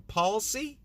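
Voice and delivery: tentative two-syllable "palsy"; questioning pronunciation. Real, not acted. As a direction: try out "palsy" as PAWL-see, rising. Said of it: "How do you say it?".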